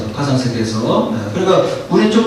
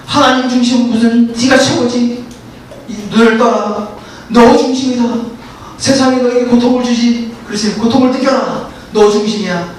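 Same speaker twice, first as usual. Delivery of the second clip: higher, taunting voice that eggs on; whisper-like temptation to self-centredness; tempting Satan; 3 semitones higher than usual. Acted. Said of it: "하면서". (사탄이 사람을 부추기듯 살짝 높은 유혹하는 목소리)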